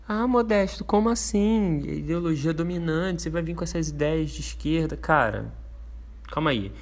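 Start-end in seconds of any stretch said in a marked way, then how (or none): 0.1-5.0 higher-pitched imitation of a doubting viewer; mock objection. Imagined viewer challenging the host about left-wing ideas, mock objection. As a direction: put on an incredulous objector, pitched up.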